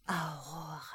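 geisterhaft aus der Ferne gerufen; ferner Ruf. A narrator's reading. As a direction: ruf den Namen wie von weit her. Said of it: "die Stimme, die ihren Namen rief". (ferne rufende Geisterstimme)

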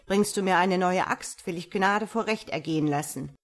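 laute, drohende Befehle, anfangs schnell; wütend schreiend. Acted. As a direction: den Holzfäller zornig anbrüllen. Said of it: "schrie der Graf". (der Graf jagt den Holzfäller schreiend davon)

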